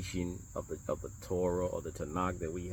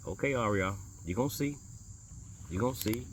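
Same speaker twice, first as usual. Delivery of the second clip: mild-mannered; 4 semitones higher, 3 dB quieter than usual. Retold or imitated. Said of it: "he would just mild-mannered".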